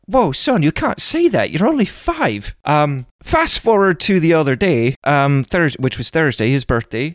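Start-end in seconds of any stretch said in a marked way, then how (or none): 0.1-2.6 put-on higher, surprised dad scolding his boy, slowing down at the end; playful fatherly alarm; mock-shocked dad. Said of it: "I was like".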